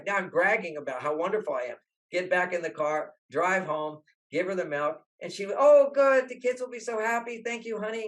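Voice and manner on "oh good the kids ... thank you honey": high, loud burst of mock delight; higher mock-happy thanks; delighted wife. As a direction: play the grateful wife, bright and high. Wife voiced thanking husband.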